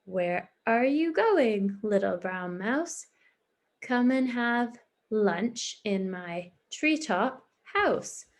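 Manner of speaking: slow, drawn-out owl invitation. Acted. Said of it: "We know the owl says".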